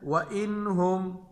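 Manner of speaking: slow "व इन हुम", clear n without nasal hum; izhar recitation. Shown as a demonstration. Teacher explains noon sakin to students, clear n in "व इन हुम". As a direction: sound "इन" cleanly, then "हुम". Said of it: "नून साकिन है".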